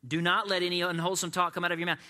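dramatic loud proclamation; booming scripture reading. Shown as a demonstration. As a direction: thunder the verse like a movie trailer. Repeated verse, joking about movie.

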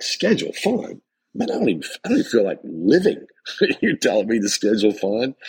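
high-pitched mock disbelief; incredulous objection. Listener objects to being told to schedule fun, incredulous.

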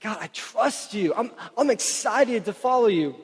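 sincere eagerness that lifts toward excitement; eager trust. Retold or imitated. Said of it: "It's like".

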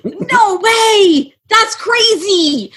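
high, slow sarcastic gasp; mock disbelief. Real, not acted. Teasing Aaron, she mocks being shocked. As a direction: fake shock, drawn out.

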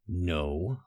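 low, tight through clenched teeth; through gritted teeth. A narrator's reading. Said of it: "Tay said through gritted teeth".

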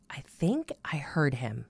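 hushed, hesitant whisper. Retold or imitated. Telling her friend in an awed whisper. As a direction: breathe it out, barely daring to say it. Unsure of hearing God.

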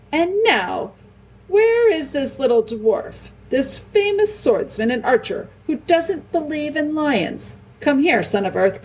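slow, high-pitched summons with mock grandeur; hint of roar. A narrator's reading. Aslan summoning the dwarf who doubts lions, hint of roar. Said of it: "with just a hint of roar in it".

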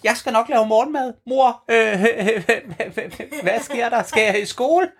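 high drowsy half-awake voice; sleepy bluetit. Acted. Bluetit woken up, high sleepy confusion. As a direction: mumble like a child just woken. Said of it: "siger Blåmejsen".

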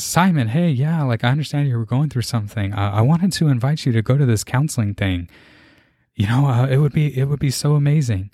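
a light hint of the eager friend; friend on phone. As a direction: cheerfully invite him along. Friend on phone inviting him.

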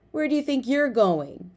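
high, taunting challenge; bully girl voice. A narrator's reading. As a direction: block their way with a sneer. Bully girl confronts them.

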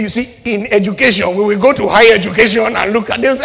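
hammed-up evasive politician, rising and fast; a hint of a pompous politician; mock politician. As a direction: play the slick politician dodging the question. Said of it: "He said".

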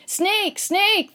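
put-on high, loud alarm cry of a scared boy; shouting. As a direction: yell the warning at the top of your voice. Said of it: "they shouted".

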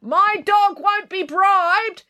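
high, very slow haughty April voice; yelling April. A narrator's reading. April calls from the porch to Loretta, haughty yell. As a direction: proclaim it from the porch. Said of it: "yelled April".

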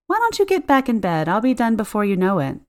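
high, bright-on-purpose cheer over nerves; forced cheerfulness. Acted. Cleaner to sick client, forcing cheer despite dread, high and chirpy. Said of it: "With as much cheerfulness as I could muster".

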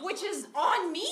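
high, loud laughing admission; high squealing laugh; self-mocking laugh. Real, not acted. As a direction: laugh at yourself. Laughing at own mistake.

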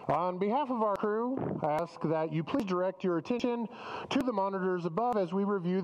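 lightly voiced airline safety announcement; flight attendant. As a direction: recite the safety spiel like cabin crew. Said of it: "the whole spiel of what the flight attendant go-, does on the plane".

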